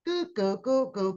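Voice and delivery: quiet babbling goo goo; mocking someone as unintelligible baby talk; mock gibberish. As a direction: babble it like nonsense nobody can follow. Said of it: "Couldn't understand it".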